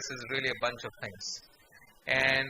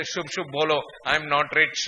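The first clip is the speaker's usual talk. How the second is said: superstitious Indian denial; 2 semitones lower, 3 dB louder, slower than usual. Retold or imitated. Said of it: "how we Indians feel".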